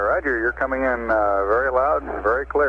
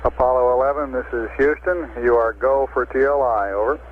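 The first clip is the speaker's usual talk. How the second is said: crackly military radio; 7 semitones higher than usual. Real, not acted. Capcom go call over radio.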